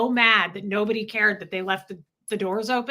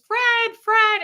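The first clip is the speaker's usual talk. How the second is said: higher, louder call; 12 semitones higher, 6 dB louder than usual. Retold or imitated. Mother calling on Fred to find her dogs, calling out. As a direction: call out to the sky for help. Mom calls for lost dogs.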